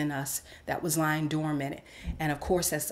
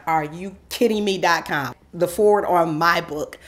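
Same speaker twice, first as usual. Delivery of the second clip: louder, incredulous inner reaction; shocked disbelief; 6 dB louder than usual. Retold or imitated. She hears mentor offer the foreword, incredulous. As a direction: blurt it out in amazed disbelief. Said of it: "I was in complete shock".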